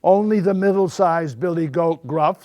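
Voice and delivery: hint of a middle-sized goat. A narrator's reading. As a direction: answer firmly as a medium-sized goat. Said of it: "in his middle-sized voice".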